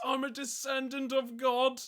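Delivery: high, loud mock proclamation; mock shout. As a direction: shout it like a ranting madman, for laughs. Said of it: "He just arrives and just shouts".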